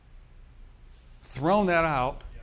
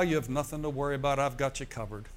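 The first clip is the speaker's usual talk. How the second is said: reassuring voice of God; faster than usual. Retold or imitated. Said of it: "That's how he said it to me".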